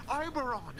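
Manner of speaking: mock yell. An impatient pupil yells the name for a stumbling classmate. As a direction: blurt the name out loud and impatient. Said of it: "I'd just yell out from across the fucking room".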